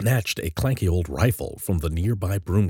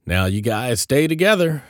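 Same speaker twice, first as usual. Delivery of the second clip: higher-pitched big-brother warning; cautioning; 7 semitones higher, 4 dB louder than usual. A narrator's reading. Joel to his little brother's friends, cautioning. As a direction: caution them like a watchful older brother. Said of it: "Joel cautioned".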